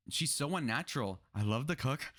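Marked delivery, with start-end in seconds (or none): 1.3-2.1 mocking imitation. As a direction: parrot her line in a stiff, put-on voice. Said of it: "why do you talk like this".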